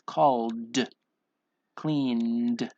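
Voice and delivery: drawn-out "called", "cleaned", each released on a d; slow sounding-out with a voiced d ending; final D sound. Shown as a demonstration. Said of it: "The N makes the D sound".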